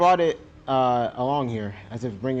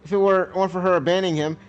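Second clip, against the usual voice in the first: a hurt daughter raised up, accusing; accusing teen daughter; 5 semitones higher, 3 dB louder than usual. Acted. Zita to Sally about her dad, accusing and raised. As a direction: throw the blame at her.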